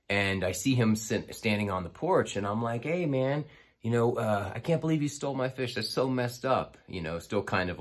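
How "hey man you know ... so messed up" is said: higher, mock-indignant ribbing; teasing. To the kid on the porch, higher teasing mock outrage. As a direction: needle him with fake outrage. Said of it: "teasing him".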